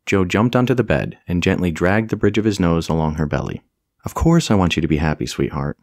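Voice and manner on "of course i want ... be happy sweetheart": cooing. Acted. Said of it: "he cooed".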